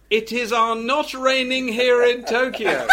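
slow, amused mock broadcast line; imitating Steve laughing. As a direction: retell it through a chuckle, slowly. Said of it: "Steve say".

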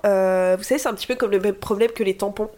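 talking through a blocked nose; stuffy nose from a cold. Real, not acted. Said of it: "J'ai le nez bouché".

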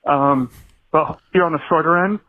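breathless from running; talking while running for breath. Real, not acted. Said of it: "so I'm out of breath".

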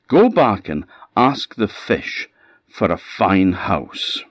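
exasperated wife; scolding wife. Acted. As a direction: nag him to go back for a house. Wife scolds husband again.

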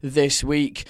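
hoarse, croaky throat; talking through a croaky sore throat. Real, not acted. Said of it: "croaky voice and all".

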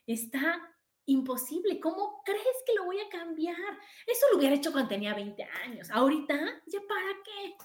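a hint of a whiny cartoon bunny giving up; movie rabbit. Quoting her favourite movie's rabbit, a lightly voiced whiny bunny. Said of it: "el conejo de mi película favorita".

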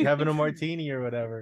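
hammed-up breathless superfan; mock fanboy gush. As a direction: parody an Easter egg hunter spotting a cameo. Mocking an Easter-egg hunter.

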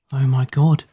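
understated stunned exclamation; mildly shocked and deliberate; slow, stunned. A narrator's reading. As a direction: say it slowly, taking in the shock. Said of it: "Maddie spoke slowly".

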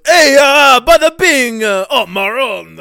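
bad loud Jersey gangster send-up; mock Tony Soprano. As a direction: ham up a Jersey mobster. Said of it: "the next Tony Soprano".

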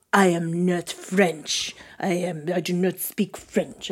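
slow, deliberate mock German accent. Mad skier correcting the apologiser, in a German accent. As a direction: imitate an offended German-accented skier, slowly. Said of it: "That was a German accent".

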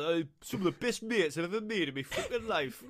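lightly put-on British regional accent; accented mock RAF testimonial. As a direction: do a matey serviceman's regional accent. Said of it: "Good accent, that".

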